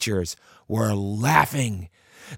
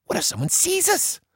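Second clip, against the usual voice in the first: put-on fearful girl. Emily scared of being seen.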